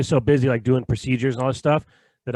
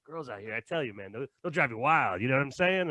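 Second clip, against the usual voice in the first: much softer, conspiratorial doctor aside; confiding aside; 7 dB quieter than usual. Retold or imitated. Doctor confides about girls to his patient, much softer. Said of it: "He's like".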